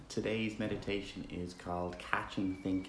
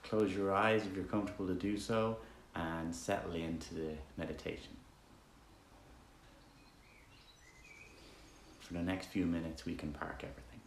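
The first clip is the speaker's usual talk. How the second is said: easygoing meditation guide, softer toward phrase ends; relaxed, conversational meditation leading with roomy silences; guided meditation; 7 dB quieter than usual. Acted. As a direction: guide listeners gently with long pauses between instructions.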